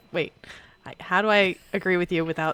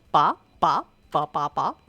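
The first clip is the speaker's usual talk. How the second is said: imitating alarm sound; 2 semitones lower, 3 dB louder, slower than usual. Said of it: "it only gets as far as bop".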